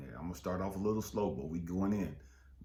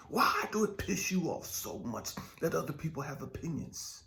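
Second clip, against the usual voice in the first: whispered question; 6 semitones higher than usual. Real, not acted. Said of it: "whispered question".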